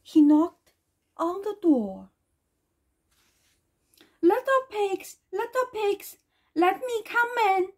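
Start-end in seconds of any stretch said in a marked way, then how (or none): 4.2-7.7 high-pitched wolf call, only mildly growly; lightly voiced growling wolf. A narrator's reading. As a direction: call to the pigs in a raised storybook voice. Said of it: "he growled".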